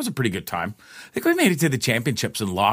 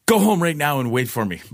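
higher-pitched imitation of a cross girlfriend; retold stern order; 4 semitones higher than usual. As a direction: order him off like a fed-up girlfriend. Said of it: "She's like".

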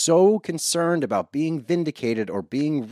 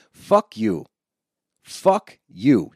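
louder, spat-out real anger; angry outburst; 5 dB louder, much slower than usual. Real, not acted. Podcaster cursing at Larsa on TV, real furious outburst. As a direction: hurl it at the TV in real disgust.

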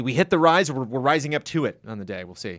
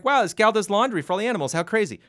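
higher, louder wide-eyed wonder; amazed girl; 8 semitones higher, 5 dB louder than usual. Retold or imitated. Girl leaving the laundry house, amazed and higher. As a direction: marvel out loud like a child. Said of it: "she's like".

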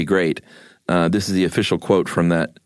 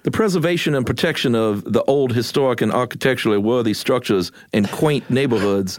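put-on old Southern accent; 5 semitones higher than usual. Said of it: "I was gonna do an old Southern thing".

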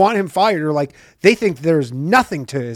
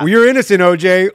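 loud, sly lawyer tone; mock-conspiratorial lawyer; knowing wink; 3 semitones higher, 5 dB louder than usual. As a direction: tell him he's innocent with a wink. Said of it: "they're like".

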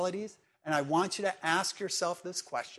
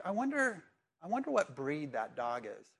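idle musing; 4 dB quieter than usual. Acted. Preacher mimics someone looking at a sad picture, idly musing. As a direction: wonder aloud with detached curiosity.

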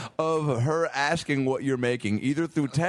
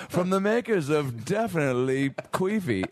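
mock ad read; 3 semitones higher than usual. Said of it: "the tagline for a soap".

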